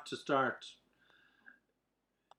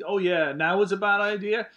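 loud, high sarcastic jab; sarcastic angry; 8 semitones higher, 9 dB louder than usual. Acted. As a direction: throw it back at him. Acted sarcastic quarrel.

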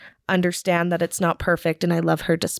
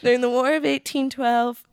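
nervous; 6 semitones higher than usual. Pretend. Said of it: "I'm adding, like, the nervous".

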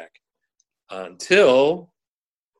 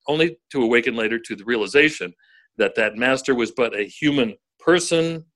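radio voice. Shown as a demonstration. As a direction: read it like the voice of God. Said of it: "Use your radio voice".

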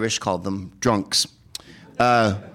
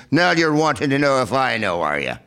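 put-on Irish accent; 3 semitones higher than usual. Irish local answering with question.

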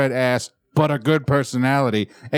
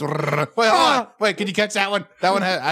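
high, frantic mock yelling; hammed-up high calling-out; calling over wind; 10 semitones higher than usual. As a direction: shout after papers blowing away. Officer chasing blown-away tickets.

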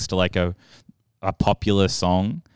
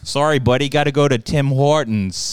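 attempted Canadian accent; 3 semitones higher than usual. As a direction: put on a light Canadian accent. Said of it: "Can you do a Canadian accent?".

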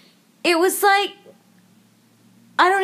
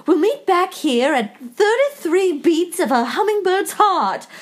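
mocking, slightly raised elf-boy voice; 3 semitones higher than usual. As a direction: recite silly fantasy dialogue with mock gravity. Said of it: "glowy orb and says".

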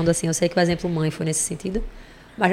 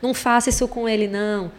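mock scolding the floor; 3 semitones higher than usual. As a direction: play the mother lightly telling off the floor. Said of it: "a mãe briga com o chão".

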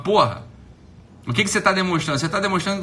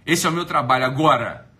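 usual speaking voice

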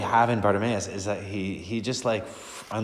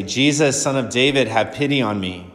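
raised, pleading call; crying out; 3 semitones higher, 6 dB louder than usual. Acted. Blind beggar to Jesus, pleading cry. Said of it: "he began to cry out".

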